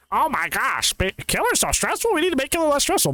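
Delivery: high, whiny imitation of complainers; mock whiny complaint. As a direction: whine it like a spoiled player.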